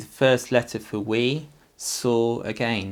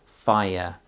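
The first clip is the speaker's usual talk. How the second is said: slow modelling; 4 dB louder, much slower than usual. Shown as a demonstration. Teacher reading slowly to the child, drawn-out modelling. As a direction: stretch out each word slowly for the child.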